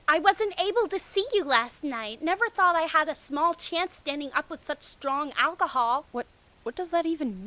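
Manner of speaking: high, loud giggly schoolgirl voice; girly Ino voice. Acted. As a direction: play a bubbly tipsy girl.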